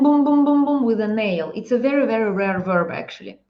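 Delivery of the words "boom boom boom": imitating hammering. Shown as a demonstration. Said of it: "it means to boom".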